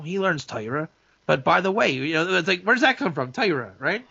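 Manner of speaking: a hint of a folksy Torah-learning president; presidential address impression. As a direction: imitate a rabbi-president greeting the nation. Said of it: "he says like this".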